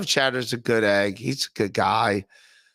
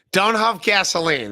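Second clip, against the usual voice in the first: mock PSA warning; 5 semitones higher, 4 dB louder than usual. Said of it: "That's my public service announcement".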